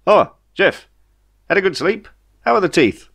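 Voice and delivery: a cheery alien voicing his welcome; Ray the alien. Ray greets waking Jeff.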